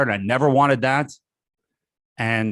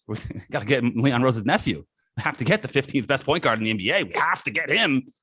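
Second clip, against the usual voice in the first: sarcastic mock. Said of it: "sarcastic mock of Knicks".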